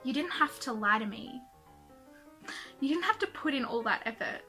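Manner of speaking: reading angsty lyrics aloud; embarrassed reading aloud. Acted. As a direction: read your teen song aloud, cringing. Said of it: "read out to you guys one of my angsty songs".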